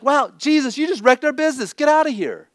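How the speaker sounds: high, loud, resentful "Wow, Jesus"; bitter, sarcastic send-off; annoyed dismissal. Retold or imitated. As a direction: townspeople resenting Jesus for lost business, mock angry. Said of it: "Or like".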